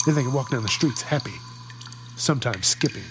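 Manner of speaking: excited to get wishes; eager wisher. Acted.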